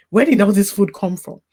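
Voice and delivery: hushed, unvoiced astonishment; amazed whisper. Grieving mother recalling a church member's food gift, whispering in awe. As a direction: whisper it as if overwhelmed by the kindness. Shocked by neighbour's food delivery.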